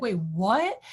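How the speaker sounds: retold disbelief, sharp rise on "what"; incredulous. Shopper hearing the chair price, incredulous. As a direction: act out a stunned double-take.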